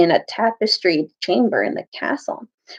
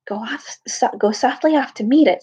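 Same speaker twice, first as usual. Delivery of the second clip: hushed order; 3 semitones higher than usual. Acted. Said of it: "said Caspian".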